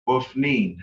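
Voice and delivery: "Pofnin" ending in a long ee plus N. Shown as a demonstration. Teacher repeats the adverb for a student, long E. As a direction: stretch the E in the last syllable of "Pofnin". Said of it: "pronounced with a long E sound".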